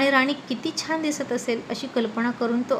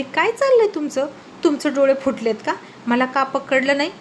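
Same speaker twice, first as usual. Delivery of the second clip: indignant scolding. Acted. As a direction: snap at him for not catching her. Rani scolds after her fall.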